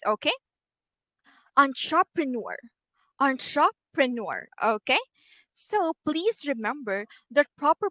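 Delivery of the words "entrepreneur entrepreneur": entrepreneur with the stress on neur; stress on last syllable. Shown as a demonstration. Teacher showing the primary stress of entrepreneur. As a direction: lean on the final syllable of entrepreneur. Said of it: "this is where the primary stress is".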